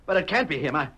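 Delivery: high, loud stunned disbelief; can't believe his eyes; shocked disbelief. Acted. Shock at sheriff alive.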